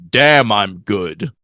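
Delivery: slow, low self-satisfied quote; mock cocky boast. Podcaster quoting Sideswipe bragging to camera, mock cocky boast. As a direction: imitate an action hero savoring his win.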